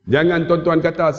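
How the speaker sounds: ordinary talk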